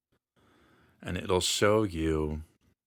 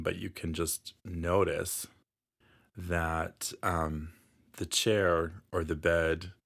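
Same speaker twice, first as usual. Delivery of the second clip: unhurried meditation guide, long pauses between phrases; guided meditation. Acted. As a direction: gently lead the listener through calming imagery.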